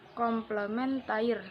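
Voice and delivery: komplementair slowly, with the Dutch air ending; Dutch pronunciation. Shown as a demonstration. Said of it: "air dalam bahasa Belanda". (komplementair dengan lafal Belanda, pelan)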